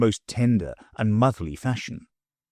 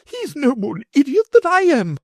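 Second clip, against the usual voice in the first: high and louder, offended; indignant outburst; 6 dB louder than usual. A narrator's reading. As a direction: defend the boy in a huff. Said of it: "cried my lady".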